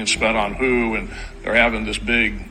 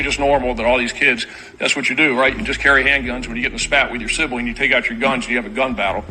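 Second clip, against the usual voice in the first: dry, quick sarcastic aside; mock the idea with heavy irony; faster than usual. Real, not acted. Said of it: "I'll say this sarcastically".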